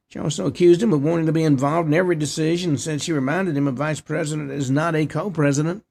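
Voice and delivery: reading a news report aloud; steady read-off-the-page news delivery. Real, not acted. Host reads out the nativity scene report, news read.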